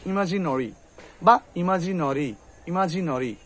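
ইমাজিনরি with rounded "no-ri"; nori ending. Shown as a demonstration. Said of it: "ওরা যেহেতু রটাকে গাঢ় করে".

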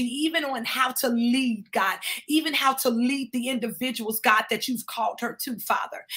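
steady, driving prayer with little let-up; earnest prayer. Real, not acted. Thanking God for the love around an apostle, earnest prayer. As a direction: keep praying on, phrase after phrase. Prays over a church leader.

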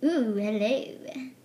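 soft slow whisper. Pretend. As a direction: whisper a shy hello. Toy dog enters, greets.

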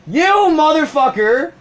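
high, drawn-out mock yell; hammed-up indignant cry; retold angry outburst. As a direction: play up the outrage, slow and high. Acting out imagined rant at coworker.

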